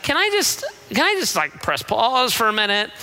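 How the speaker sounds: high exasperated start, then settles; God interrupting. Retold or imitated. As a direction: cut in like a fed-up parent. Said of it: "He's like".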